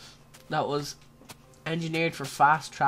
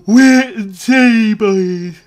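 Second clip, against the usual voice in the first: dramatic; 5 semitones higher, 14 dB louder, much slower than usual. Acted. After a gasp, dramatic.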